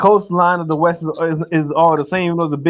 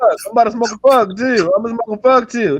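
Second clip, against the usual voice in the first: mock Baltimore accent; 4 semitones higher than usual. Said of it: "That's how they talk".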